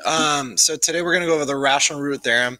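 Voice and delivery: lost voice, hoarse and strained; speaking with a worn-out hoarse voice. Real, not acted. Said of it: "I've lost my voice".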